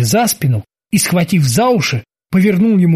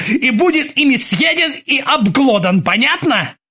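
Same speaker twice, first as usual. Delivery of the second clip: worked-up commanding rant at raised pitch; Ozzy bellowing orders; 7 semitones higher than usual. A narrator's reading. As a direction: threaten the crew with mock fury. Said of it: "заорал во всю силу своих лёгких".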